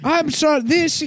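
high robotic Stephen Hawking voice; computer voice. Retold or imitated. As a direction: speak like a text-to-speech machine. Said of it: "my computer voice".

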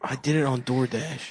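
whispering. Acted. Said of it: "Why are you whispering?".

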